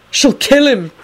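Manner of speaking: high, dire warning. A narrator's reading. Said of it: "he added direly".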